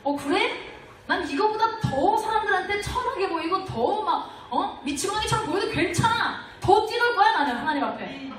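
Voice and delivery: fervent, defiant reply, rising to a loud peak on 더 뛰놀 거야; David answering his wife with bold, loud devotion; defiant zeal. Retold or imitated. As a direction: let David's zeal build into a joyful shout. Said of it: "이런 게 아니에요".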